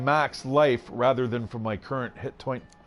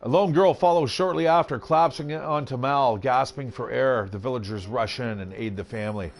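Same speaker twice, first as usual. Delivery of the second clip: measured storybook reading, settling slightly; story narration. A narrator's reading. Game player reading the burning building card, story narration. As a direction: set the scene like a narrator. Reads card text aloud.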